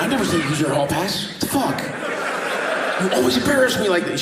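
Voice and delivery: rising indignant rant, quickening; imitating a fed-up husband; mock angry man. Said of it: "He's like".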